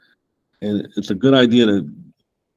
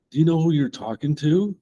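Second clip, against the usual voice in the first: stern angel rebuke; 6 semitones higher than usual. Retold or imitated. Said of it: "He said".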